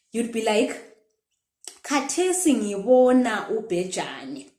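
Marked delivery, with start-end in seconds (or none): 1.8-4.5 long, falling "ngibona"; present-tense intonation. Shown as a demonstration. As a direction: stretch the middle of "ngibona" and let it drop. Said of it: "I want you to notice the intonation".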